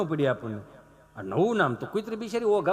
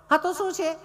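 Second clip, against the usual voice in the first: prissy lady; 9 semitones higher than usual. Retold or imitated. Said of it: "ચીપી ચીપીને બોલે".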